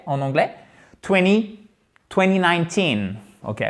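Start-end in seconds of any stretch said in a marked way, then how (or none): 1.0-1.6 twenty as "twenny", pitched higher; T sauté. Shown as a demonstration. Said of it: "Vous faites sauter le T". 2.1-3.1 twenty nineteen with twenty as "twenny"; T sauté. Shown as a demonstration. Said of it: "Vous faites sauter le T".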